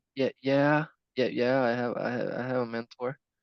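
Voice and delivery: put-on hesitant, flustered, unsure voice. Retelling own reply to a question about a mentor: imitating own unsure reply. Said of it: "when you really don't know what to say".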